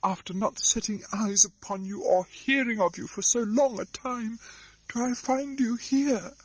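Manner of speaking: joyful cry. Acted. Miss Pross greets her lost brother, crying out. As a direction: cry out in astonished joy. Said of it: "cried Miss Pross".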